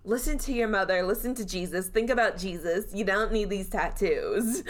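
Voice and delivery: lightly voiced scolding nun; a hint of a stern nun. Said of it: "the nun's telling him off".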